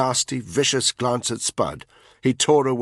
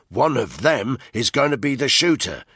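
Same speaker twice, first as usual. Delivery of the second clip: determined; 3 semitones higher, 3 dB louder than usual. Acted. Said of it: "Danny cut in".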